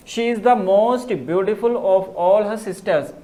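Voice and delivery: reads the example sentence slowly and evenly; slow dictation reading. Shown as a demonstration. Teacher dictating an example sentence to the class, slowly. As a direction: spell the sentence out for the students, slow. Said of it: "जैसे कि sentence आपके पास है".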